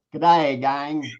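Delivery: put-on light Australian accent; Australian "g'day" lilt. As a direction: read it as an Aussie greeting. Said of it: "That's how good the accent is".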